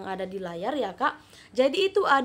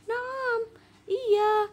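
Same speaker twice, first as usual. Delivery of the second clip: put-on higher girl's voice; Faridah's answer; 11 semitones higher than usual. Shown as a demonstration. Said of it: "Faridah jawab".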